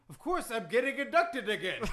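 put-on boastful accented wrestling champ; Iron Sheik. Wrestler reciting his wins to the host, boastful accent. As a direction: brag in thick broken English. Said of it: "that Iron Sheik impression".

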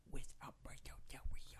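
hushed, bitter whisper. Acted. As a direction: whisper the name in disgust.

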